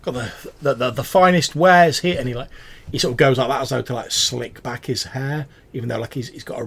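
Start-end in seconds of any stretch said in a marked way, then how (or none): 0.0-2.2 high, loud, delighted merchant voice; excited rat-faced trader; eager goblin shopkeeper. Acted. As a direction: greet the first customer in ages. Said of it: "he says".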